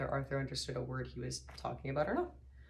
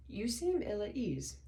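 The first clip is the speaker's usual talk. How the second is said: polite concern; 6 semitones higher, slower than usual. Acted. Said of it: "with polite concern".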